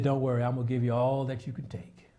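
a tender divine whisper; whispered reassurance. Acted. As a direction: breathe God's promise gently after the storm. God's gentle reassurance after shouting.

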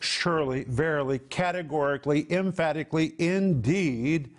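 each word set apart and stressed; measured, insistent emphasis; emphatic. Acted. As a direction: drive home each synonym, building to INDEED. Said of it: "Isaiah is speaking emphatically".

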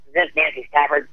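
a hint of a rough, gravelly older woman; grovelly rough voice. Agent Eileen Ford phoning Nancy, lightly voiced gruff and gravelly. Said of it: "She had this grovelly, rough voice like this".

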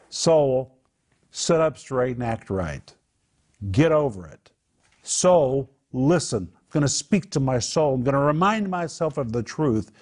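stern pep talk. Retold or imitated. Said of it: "It's equivalent to saying".

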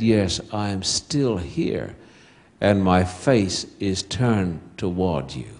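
father answering his scared daughter in the dark, tenderly; tender reassurance. Retold or imitated. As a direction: promise it gently, word by word.

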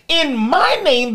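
slow, "my" drawn out long in "In my name"; slow down and lean on "my" in "In my name"; stress on MY. Shown as a demonstration. Preacher closing the list of signs, slow and stressed. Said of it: "goes in front of each one of these".

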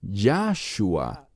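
Yahshua with the first syllable Yah slowed and stressed. Shown as a demonstration. Teacher showing how some groups say Yahshua, slow stress on Yah. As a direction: lean on the Yah of Yahshua, drawn out. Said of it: "enfatizan la sílaba Yah".

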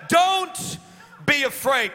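preached shout. Real, not acted.

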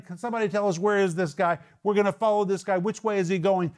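acted blind followers. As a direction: lightly act out searchers calling for directions. Acts out blind men seeking Jesus.

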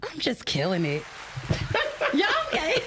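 high-pitched, giddy excitement with a laugh; really giddy, pitch leaping up; geeked up. Real, not acted. Host admits to guests she's geeked up, giddy and excited. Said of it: "I'm geeked up".

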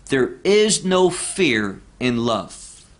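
"There is no fear in love" read slowly and evenly; slow careful reading. Shown as a demonstration. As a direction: set out the plain English order of "There is no fear in love". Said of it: "we would say".

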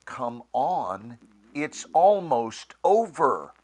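call to action. Shown as a demonstration. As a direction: urge them on to the finish. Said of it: "a different inflection of those same three words".

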